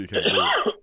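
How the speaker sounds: loud teasing mock. Real, not acted. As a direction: blurt it out loud to tease. Mocking the friend loudly.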